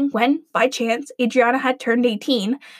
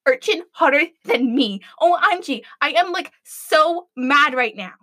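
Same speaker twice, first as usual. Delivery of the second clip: put-on valley girl rage; 3 semitones higher than usual. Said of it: "in barely controlled rage".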